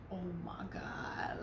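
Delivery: whispered oh my God. Retold or imitated. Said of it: "and I'm like".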